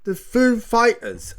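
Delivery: high, slow attempt at mimicry; Christopher Walken. Host retrying the band introduction, high slow Walken impression. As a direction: stretch it out, pitched well up. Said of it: "I can't do Christopher Walken".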